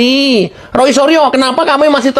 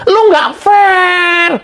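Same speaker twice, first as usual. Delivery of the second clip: angry accusation; 8 semitones higher, much slower than usual. Real, not acted. Host accusing JK directly, angry slow outburst. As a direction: drag it out in anger.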